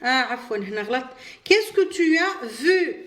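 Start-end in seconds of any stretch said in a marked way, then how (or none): 1.4-3.0 very slow, clear French question; slow model question. Shown as a demonstration. Teacher asks pupils the example question, slowly. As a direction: ask it slowly so pupils catch every word. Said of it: "نطرح السؤال باش ننفي".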